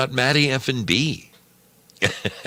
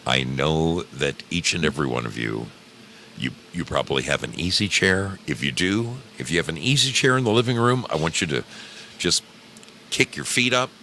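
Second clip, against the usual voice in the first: soothing hypnotist patter; right in your ear. Acted.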